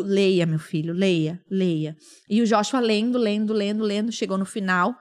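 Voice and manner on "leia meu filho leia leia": low retold paternal command; firm father. Father telling crying son to read, firm. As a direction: order it firmly, pitched well down.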